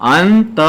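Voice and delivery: अंत split into a held "अन", then "त"; syllable by syllable. Shown as a demonstration. Teacher locating रे in the word, syllable by syllable. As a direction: sound out "अन… त" in two pieces. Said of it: "जहां रे का उच्चारण होगा".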